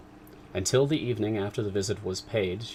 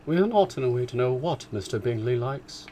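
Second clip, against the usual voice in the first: lightly higher resentful mother, stress on not; corrected take in the mother's voice; 4 semitones higher than usual. Acted. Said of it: "it's actually the mother".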